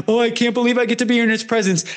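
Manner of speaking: hammed-up tearful rush, rattled off fast; mock gushing. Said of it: "not sobbing and like".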